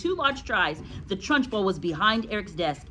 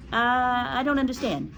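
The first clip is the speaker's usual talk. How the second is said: put-on high, hesitant child voice; puzzled schoolboy; 6 semitones higher than usual. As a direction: sound like a confused small pupil. Confused Eric answers.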